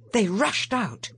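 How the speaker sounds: usual speaking voice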